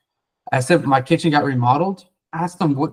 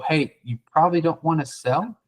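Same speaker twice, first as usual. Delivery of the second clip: going negative; 4 semitones higher than usual. Shown as a demonstration. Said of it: "Instead, if we go".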